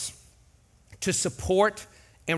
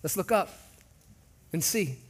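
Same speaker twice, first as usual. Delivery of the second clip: friendly call out; 4 semitones higher, slower than usual. Retold or imitated. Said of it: "we need others to say".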